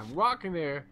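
lightly hammed New York catchphrase; New York accent. Player repeating the running gag, light New York accent. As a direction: toss it off as a mock New Yorker. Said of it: "to do the accent".

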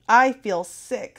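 weakly. A narrator's reading. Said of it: "said Sarah weakly".

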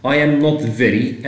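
slow, drawn-out English phrase; slow teaching read. Shown as a demonstration. Teacher to students, slowly reading the wrong option. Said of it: "I am not very إيه؟".

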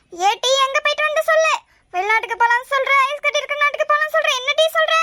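irritated mother-in-law demanding an answer; testy interrogation; cross, impatient. Acted. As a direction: press crossly for a reply. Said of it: "ஏன் அத்தை இப்படி கோவப்படுறீங்க?".

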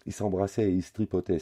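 put-on high, loud child's bawl; loud telltale yell. A narrator's reading. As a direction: bawl it out like a tattling boy. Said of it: "braille Lenny".

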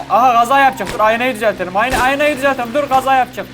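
excited alarm at the wheel. Real, not acted. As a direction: yelp as the crash looms. Panics that the driver will crash.

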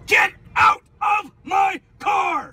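angry shout. Real, not acted. Driver screams at passenger.

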